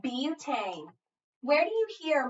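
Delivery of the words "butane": "Butane" with stress on the first syllable; accented first syllable. Shown as a demonstration. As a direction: lean on the "Bu" in "Butane", let the rest drop. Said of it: "listen for the accent".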